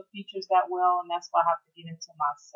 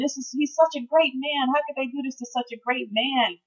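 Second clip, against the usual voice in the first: higher, pleading lament growing louder; retold grieving lament; 6 semitones higher, 3 dB louder than usual. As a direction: grieve over a good man. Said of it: "And I just kept saying".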